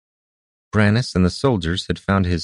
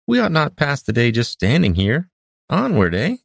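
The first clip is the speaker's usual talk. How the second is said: mild tone; 8 semitones higher than usual. A narrator's reading. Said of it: "the hermit's mild tone had returned".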